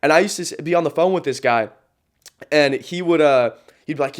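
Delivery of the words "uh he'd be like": ordinary talk, nothing marked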